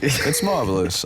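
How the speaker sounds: put-on British accent. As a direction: try a proper English accent. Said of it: "a U K accent".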